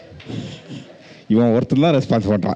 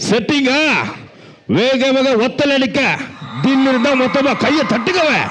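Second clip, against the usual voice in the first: character voice; 11 semitones higher than usual. Acted. Mimicry stage performance.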